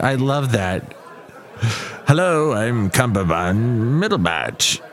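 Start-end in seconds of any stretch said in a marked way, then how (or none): 2.1-4.8 mock introduction. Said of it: "so many ways to mess up that name".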